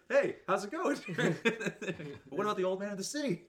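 high, loud, laughing through the words; can't keep a straight face; giggling mock quote. Quoting South Park scene laughing.

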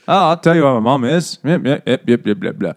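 light mock Australian accent. Son offering to show his mom, mock Australian accent. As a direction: toss it off in a hint of Australian. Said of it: "in Australian".

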